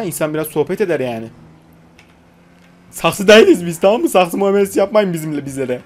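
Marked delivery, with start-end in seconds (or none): 2.9-5.8 mock scolding. Scolding silent passenger.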